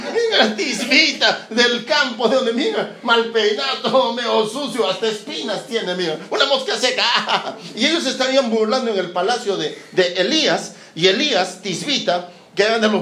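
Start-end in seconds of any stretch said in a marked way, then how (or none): 0.1-7.6 mocking ridicule. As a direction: sneer at the scruffy bumpkin. Courtiers ridicule Elías.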